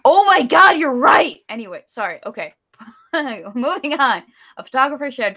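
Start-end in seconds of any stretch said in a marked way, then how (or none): 0.0-1.4 loud, high exclamation of realization; sudden realization. Real, not acted. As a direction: burst out as it suddenly dawns on you. Sudden realization about what was said.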